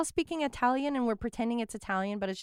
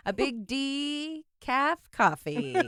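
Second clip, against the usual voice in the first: mock cozy; 3 semitones higher, much slower than usual.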